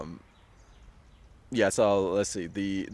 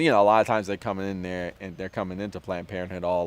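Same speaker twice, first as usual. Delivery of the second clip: ordinary delivery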